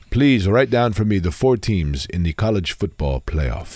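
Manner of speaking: slow, low genie decree; Robin the Genie voice. Shown as a demonstration. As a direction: pronounce it like a genie's command. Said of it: "make up a genie voice now".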